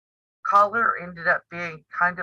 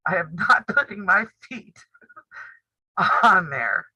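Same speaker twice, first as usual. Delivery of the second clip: laughing. Real, not acted. Refusing to show feet, laughing.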